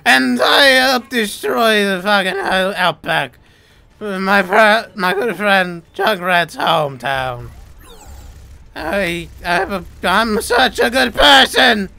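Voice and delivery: loud, lightly voiced robot villain; hammed-up Omnic robot. Player playing an Omnic for teammate, hammed-up robot. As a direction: boast like an over-the-top killer robot. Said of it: "all you gotta do is".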